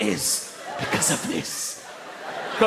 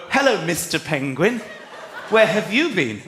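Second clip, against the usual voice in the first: put-on children's presenter; 4 semitones lower than usual. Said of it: "and go".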